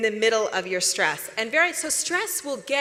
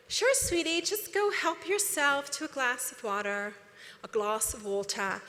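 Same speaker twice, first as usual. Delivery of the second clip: sweet parent; 3 dB quieter than usual. Retold or imitated. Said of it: "You're like".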